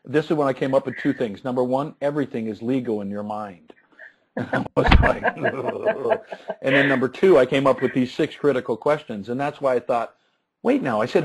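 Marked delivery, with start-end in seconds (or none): 5.4-6.2 high, soft retold groan; mock groan of a fed-up parent; exasperated groan. Dad told he got the wrong color, exasperated groan. Dad reacts to daughter's complaint.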